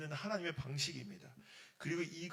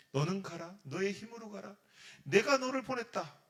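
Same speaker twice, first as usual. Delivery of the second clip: loud declaration, climbing higher to the end; God's firm command; 4 semitones higher, 8 dB louder than usual. Acted. God sends Gideon out, loud commanding declaration. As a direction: proclaim it as a divine order. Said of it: "이렇게 얘기하는 겁니다".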